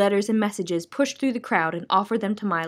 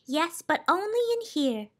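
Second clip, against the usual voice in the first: high and hushed; softly spoken, high lady's voice; soft reply; 9 semitones higher, 5 dB quieter than usual. Acted. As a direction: answer gently, keeping the quiet. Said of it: "she replied softly".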